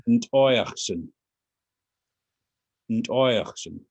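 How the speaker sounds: "Ntoyachsen" with the emphasis on the "oy" part; teacher's model of "Ntoyachsen", leaning on "oy"; stress on OI. Shown as a demonstration. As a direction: punch the "oy" in "Ntoyachsen", then fall away. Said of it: "the emphasis is on the oi".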